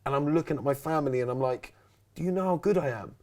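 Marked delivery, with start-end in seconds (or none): 2.1-3.1 higher, drawn-out mock swagger; boasting. Stage self bragging to family about screaming fans, boastful. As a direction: show off, stretching the words out.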